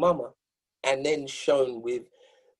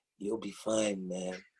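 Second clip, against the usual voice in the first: put-on deep voice, lower and quieter; 5 semitones lower, 10 dB quieter than usual. Retelling what Don Cornelius said to calm nerves: imitating Don Cornelius's deep voice. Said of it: "with that deep voice".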